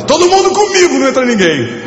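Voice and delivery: mocking a show host. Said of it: "e o cara fala".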